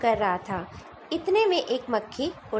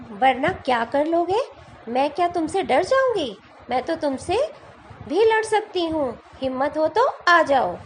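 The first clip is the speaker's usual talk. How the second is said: defiant fly; 2 semitones higher than usual. Acted. Fly defiantly challenges the lion.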